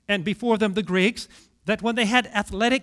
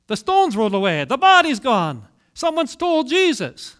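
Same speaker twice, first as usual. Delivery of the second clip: louder, urgent announcement of terrible news; alarmed report; 3 semitones higher, 5 dB louder than usual. Acted. Mary runs to tell the disciples the body is gone, alarmed.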